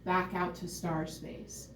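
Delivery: slow soft murmur to star space; hushed slow refrain. Real, not acted. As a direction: let it drift away slowly. Refrain of the regression.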